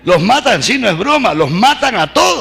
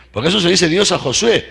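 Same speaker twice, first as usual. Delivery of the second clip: ordinary talk, nothing marked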